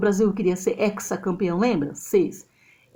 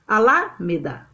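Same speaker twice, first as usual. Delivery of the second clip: "Alameda" with LA hit hard; stress on second syllable. Shown as a demonstration. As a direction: test "Alameda" as a-LA-meda. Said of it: "Quem é a sílaba tônica mais forte?".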